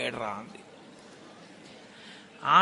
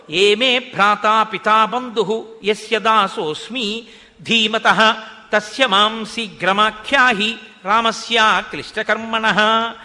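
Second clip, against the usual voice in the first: slow, louder chanted Sanskrit verse; shloka recitation; 4 dB louder, slower than usual. Acted. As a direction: intone the shloka like a pravachanam. (శ్లోక పఠనం, నెమ్మదిగా గట్టిగా)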